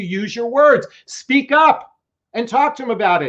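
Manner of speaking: yelling. Addressing the ladies, apologizing for talking to them like children, yelling. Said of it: "I'm yelling like you're a little child".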